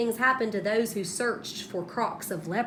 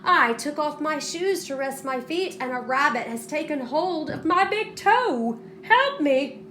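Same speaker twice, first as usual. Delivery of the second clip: little man; 6 semitones higher, 3 dB louder than usual. A narrator's reading. Trapped leprechaun pleads.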